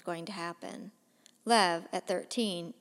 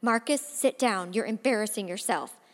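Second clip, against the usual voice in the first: firm, louder command; mother sternly ordering her son; forceful; 4 dB louder than usual. Acted. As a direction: order him to sit. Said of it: "a voice more forceful than Dad's".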